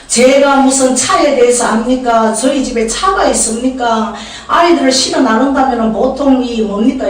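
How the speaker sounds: slow, drawn-out protest to God; pleading prayer. Retold or imitated. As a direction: plead helplessness in an acted-out prayer. Acted pleading prayer about a car. (하소연하듯 느린 기도)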